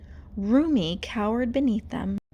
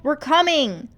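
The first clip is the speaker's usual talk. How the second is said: high, loud reassuring call; 6 semitones higher, 9 dB louder than usual. Acted. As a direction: shout as you run. Mira calling while running.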